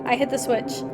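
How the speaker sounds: measured, even reading aloud; story narration. A narrator's reading. Narrator tells of visiting him, measured story reading. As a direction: read the tale out evenly, in first person.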